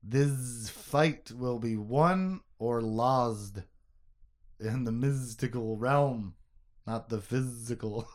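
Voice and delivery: slow lizard hiss leaning on z sounds. Retold or imitated. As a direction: drag it out like a hissing lizard. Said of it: "Zed tongue lizard voice".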